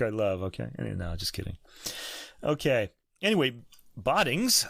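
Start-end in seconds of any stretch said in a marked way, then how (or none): 4.0-4.7 "Boddings" with an ah, BAH-dings; chosen pronunciation. Shown as a demonstration. Host settling on a Dutch surname, ah pronunciation. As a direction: say "Boddings" with the first vowel open, as in bod. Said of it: "I'm gonna go for Boddings".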